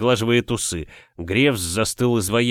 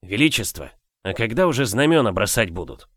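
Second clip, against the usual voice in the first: snide half-whisper; 3 semitones lower than usual. Acted. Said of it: "ехидно спрашивает полушёпотом".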